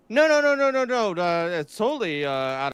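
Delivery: high, frantic no-no-no denial; panicked denial. Retold or imitated. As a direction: backpedal in a high-pitched panic. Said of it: "we're d-, gonna see".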